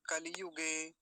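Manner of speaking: कलियुगे as "ka-li-yu-ge"; कलियुगे with every syllable sounded; short i sounded. Shown as a demonstration. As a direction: say a clear लि in कलियुगे. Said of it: "ऐसा करके".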